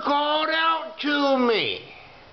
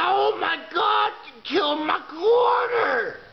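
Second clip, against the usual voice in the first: mock grief wail; 5 semitones higher than usual. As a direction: wail over the coin as if over a friend. Mourning the dead coin.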